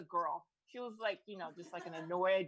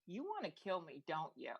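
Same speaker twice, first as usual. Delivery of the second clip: deep-hearted murmur; 4 semitones lower, 5 dB quieter than usual. Retold or imitated. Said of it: "deep in my heart and say".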